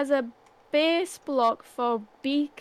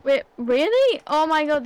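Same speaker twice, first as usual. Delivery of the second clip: dawning joy; 4 semitones higher, 7 dB louder than usual. Real, not acted. Learns gravel trick, delighted.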